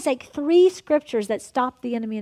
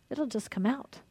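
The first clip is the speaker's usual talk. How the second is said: soft echo; 9 dB quieter than usual. Real, not acted. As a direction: drop to a near hush on the repeat. Repeats it much softer.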